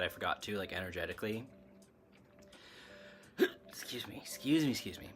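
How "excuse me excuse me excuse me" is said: hiccuping between words; hiccups. Real, not acted. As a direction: excuse me through hiccups. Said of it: "if I don't stop hiccuping".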